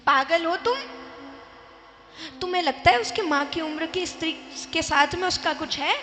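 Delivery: mother-in-law scolding her daughter-in-law, loud and indignant; angry retort. Retold or imitated. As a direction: scold her for thinking such a thing. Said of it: "दोनों यहां लड़ रही थी".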